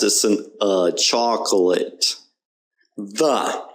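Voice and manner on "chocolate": "chocolate" slowly as CHOK-uh-lut; unstressed O. Shown as a demonstration. Teacher explaining the O, slow "chocolate" with uh in the middle. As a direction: draw out "chocolate" with an uh for the O. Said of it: "The O there is just kind of unstressed".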